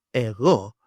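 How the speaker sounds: "ego" as e-GHO, not like the English word; Greek pronunciation. Shown as a demonstration. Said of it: "It comes from".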